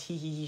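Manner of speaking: little mocking hee-hee giggle. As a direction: imitate her taunting giggle. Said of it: "En mode". (petit rire moqueur imité)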